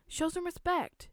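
high, slow, controlled reprimand; drawn-out parental scolding; stern order. A narrator's reading. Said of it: "she ordered Lindsay's brothers".

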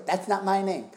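high, loud goofy dad voice; dad impression. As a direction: belt the catchphrase like dad. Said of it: "he'd just go".

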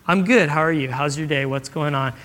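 easy, settling phone chat; attentive. Acted. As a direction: give the caller your full attention. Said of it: "put that thing aside".

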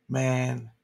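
a short real laugh through the word. Real, not acted. Host laughing about the CDC, laughing. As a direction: laugh it out despite yourself. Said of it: "I'm laughing".

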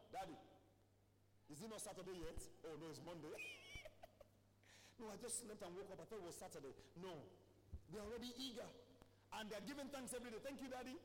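soft, hushed storytelling; quiet speaking. Real, not acted. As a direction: tell it softly, close to the mic. Quiet stretch of family stories.

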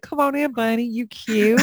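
high, coaxing invitation; mock-sweet welcome. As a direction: coo at a cute little visitor. Coaxing Easter bunny like Santa.

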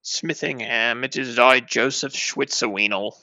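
slow, hammed-up mock German proclamation; lightly put-on German accent; German Joseph. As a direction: announce yourself as a pompous German. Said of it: "The German Joseph".

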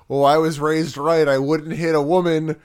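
put-on a light Minnesota accent; Piper's lines in a mild Minnesota accent. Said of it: "a little more Minnesota than Canadian".

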